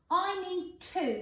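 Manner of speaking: drawn out, word by word; slow read-back. Shown as a demonstration. Teacher reading back the sentence slowly to pupils. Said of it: "reading sentence slowly while writing".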